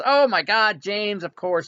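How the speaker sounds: high, loud burst of recall; sudden recognition. Acted. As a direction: exclaim as the memory floods back. Cleric suddenly remembers James.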